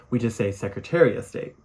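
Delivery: "Secretary of State" run together as "Secretary-a-State"; run-together words. Shown as a demonstration. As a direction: blur "Secretary of State" into one word.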